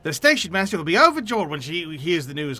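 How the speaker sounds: put-on an NPC in a muddled Cockney accent; lightly done Cockney-ish accent, not quite consistent; messy Cockney accent. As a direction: lean into Cockney, a bit mixed up. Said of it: "what is this accent? ... mix between Boshin and Cockney".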